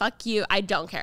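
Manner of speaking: normal talking voice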